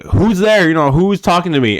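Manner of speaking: high, loud startled call into the dark; a spooked fighter shouting who is there. Retold or imitated. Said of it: "he's like".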